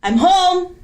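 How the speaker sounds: high, loud call of I'm home. Retold or imitated. Retelling the ghostly greeting heard in the house, high and loud. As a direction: sing out arriving home. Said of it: "we hear".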